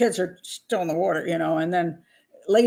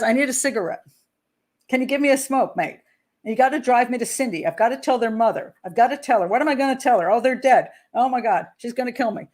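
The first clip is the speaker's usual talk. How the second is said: higher, agitated retold babble; incoherent babbling; 4 semitones higher than usual. Father begging locals to drive him to Cindy, babbling. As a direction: imitate a distraught man tumbling from plea to plea. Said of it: "He's incoherent. He's babbling".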